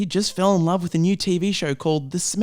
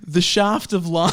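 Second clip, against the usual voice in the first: dramatic announcement. Acted. Dramatic chapter title reading.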